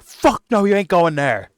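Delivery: high, loud mock refusal; hammed-up flat refusal; outraged parent. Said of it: "But you would be like".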